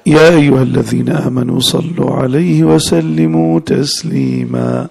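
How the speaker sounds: slow, drawn-out Arabic recitation; solemn recitation. Acted. Teacher opening the lesson with a verse of blessing, solemn recitation. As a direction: recite slowly, stretching the long vowels.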